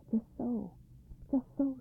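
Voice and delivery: softly voiced, unruffled agreement; quiet, patient old man's reply. A narrator's reading. Old man calmly answers guard.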